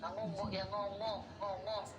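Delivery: husband waving off his crying wife, mildly annoyed. Acted.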